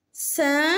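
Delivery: "Cinquante" split into cin, quante; syllable by syllable. Shown as a demonstration. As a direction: pause between drawn-out syllables of "Cinquante". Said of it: "dans la première syllabe". (« Cinquante » en syllabes bien détachées)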